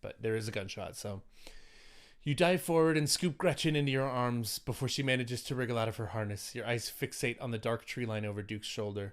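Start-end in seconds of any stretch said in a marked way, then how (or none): 2.2-9.1 story narration. Acted. Game master scene narration.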